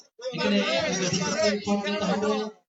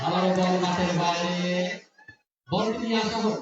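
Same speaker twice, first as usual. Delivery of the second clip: rapid live play-by-play; frantic football commentary. Real, not acted. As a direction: call the match as it unfolds.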